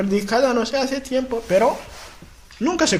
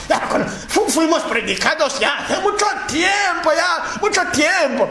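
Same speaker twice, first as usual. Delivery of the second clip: mocking dismissive shout; 6 semitones higher than usual. Preacher mocks dismissive possessed person.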